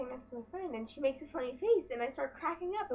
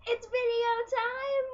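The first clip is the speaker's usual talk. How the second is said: excited whisper; 10 semitones higher, 7 dB louder, slower than usual. Acted. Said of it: "This is where you say".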